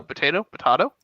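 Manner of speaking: potato said "po-TAY-to", then "po-TAH-to"; first potato with "ay", second potato with "ah"; two pronunciations contrasted. Shown as a demonstration. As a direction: switch the stressed vowel of potato from "ay" to "ah".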